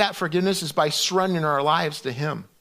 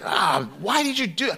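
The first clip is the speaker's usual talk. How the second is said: mild mock rant at the engineer; worked-up complaint, lightly acted; retold anger; 3 semitones higher than usual. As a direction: act out griping at whoever designed this. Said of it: "getting mad at the engineer".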